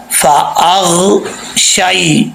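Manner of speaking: فَأَغْشَيْ with the voice resting on غ, no bounce, slow; steady ghain. Shown as a demonstration. Teacher modelling ghain without qalqala. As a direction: let the غ in فَأَغْشَيْ settle, no echo. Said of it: "غین کے اوپر آواز جم جائے".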